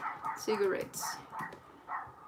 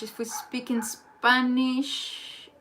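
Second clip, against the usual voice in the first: slow puzzled reading; much slower than usual. Shown as a demonstration.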